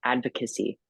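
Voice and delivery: "Advocacy" said in full, all four syllables, falling at the end; the complete word "Advocacy", no longer questioning; word found. Real, not acted. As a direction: land on "Advocacy" as a settled statement. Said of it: "that's the word".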